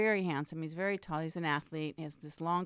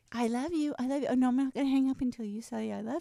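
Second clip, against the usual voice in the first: whiny clingy voice, higher and fast; mocking needy girlfriend; 4 semitones higher, faster than usual. Mother mimics son's clingy girlfriend, mocking needy whine. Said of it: "this little needy".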